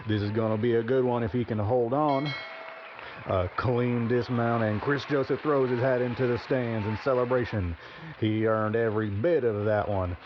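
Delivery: excited live rodeo call; play-by-play. Acted. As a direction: call the ride as it happens, building up. Live bull ride commentary.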